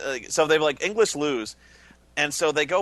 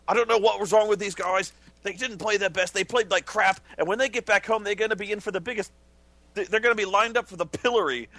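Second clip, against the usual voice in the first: higher, fired-up mock rant; ranting pundit; 5 semitones higher than usual. Friend retelling an English pundit unloading on his team, mock rant. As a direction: rant like a furious pundit, lightly. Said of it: "he kinda went unleashed on him".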